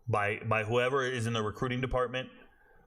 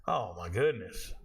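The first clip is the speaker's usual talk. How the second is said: exasperated reaction; 3 semitones lower, slower than usual. Retold or imitated. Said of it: "And I'm just like".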